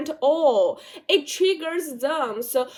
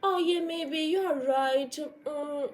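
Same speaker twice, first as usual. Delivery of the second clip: meek agreement; 3 semitones higher than usual. Retold or imitated. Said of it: "Or would you say".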